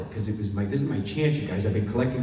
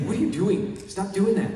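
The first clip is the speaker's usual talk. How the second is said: higher mock scolding; mean scolding; 10 semitones higher than usual. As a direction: shut the act down. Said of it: "He was so mean".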